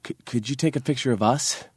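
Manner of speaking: hesitant, stammering request. Retold or imitated. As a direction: stumble on the first word. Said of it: "stammered over to me and was like".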